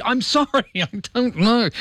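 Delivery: high, laughing mock apology; hammed-up embarrassed sorry; flustered apology. Flustered apology in retold gaffe.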